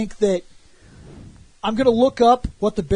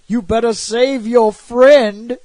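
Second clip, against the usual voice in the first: slow, louder, mock-ominous game voice; game prompt voice; 5 dB louder, slower than usual. Game nagging the player, slow mock-ominous prompt. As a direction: drag it out like a nagging game hint. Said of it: "and it's like".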